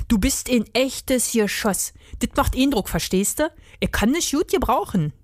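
lightly voiced Berlin-dialect rat; enthusiastic Berlin rat. Rat recruiting the hedgehog, keen Berlin dialect. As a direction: make the rat sound streetwise and keen.

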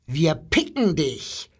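lightly chirped bird voice; a hint of twittering birds. A narrator's reading. Birds threaten the boy, lightly twittered. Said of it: "zwitscherten die Vögel".

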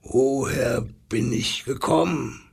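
lightly growled lion question; lion calling out. Acted. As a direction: ask across the way as a lion. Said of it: "schrie da der Löwe seinem Gegenüber zu".

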